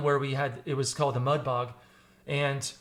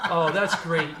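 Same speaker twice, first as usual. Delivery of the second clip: laughing; slower than usual. Retold or imitated. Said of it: "And I was like".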